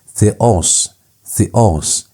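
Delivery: "theos" with the stress on the final "os"; "theos" said twice, leaning on the "o"; stress on omicron. Shown as a demonstration. Teacher showing how the accent mark works, stress on the omicron. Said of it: "you emphasize omicron".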